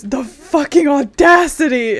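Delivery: Koi's outraged shout. Retold or imitated. Retelling a voice actor clip, mock indignant yell. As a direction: ham up an indignant outburst. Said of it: "where he goes".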